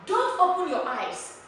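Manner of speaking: high, firm order; command. Shown as a demonstration. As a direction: give it as an instruction to be obeyed. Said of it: "It is a command".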